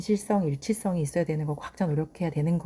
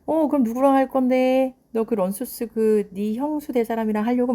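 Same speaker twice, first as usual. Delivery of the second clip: lightly voiced sneer of a father, louder at first; mock sneering; 5 semitones higher, 3 dB louder than usual. Father taunting his son about marriage, mock sneering. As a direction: taunt the son, half-played. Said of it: "비아냥거린 거예요".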